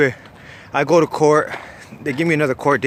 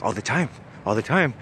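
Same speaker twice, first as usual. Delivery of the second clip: straight-faced; 2 semitones lower, 5 dB quieter than usual. Retold or imitated. Cellmate answers about using his sword, straight-faced. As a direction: imitate someone dead serious about a tall tale. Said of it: "with a straight face".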